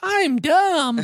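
very high, squeaky, deliberately bad character voice. Showing how she talks for her dog: really bad Elmo impression. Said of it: "really bad Elmo impression when I do her".

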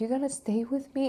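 put-on childlike little girl voice, pitched very high. Retelling how they acted like a little girl toward him, in a little girl voice. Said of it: "I was speaking like a little girl".

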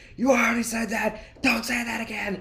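shrill, very high-pitched, acted-out shout. Recalling someone repeating himself on a stream, retelling shouting at the screen. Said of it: "I'm just shouting at the screen".

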